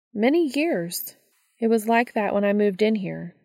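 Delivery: a touch of an irritated neighbor; impatient woman voice. Acted.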